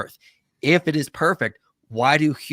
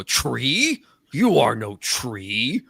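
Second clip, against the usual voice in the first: demonstrated movie line; 2 semitones higher, 3 dB louder, much slower than usual. Shown as a demonstration. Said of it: "when they walk in the room, go".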